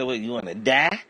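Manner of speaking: high, loud threat; menacing shout. Retold or imitated. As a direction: shout it like a gunman. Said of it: "I'm gonna say".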